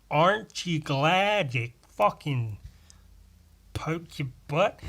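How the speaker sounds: slow, hammed-up American imitation; exaggerated American vowels; American accent. Shown as a demonstration. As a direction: draw it out in a mock American accent. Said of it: "like, an American accent".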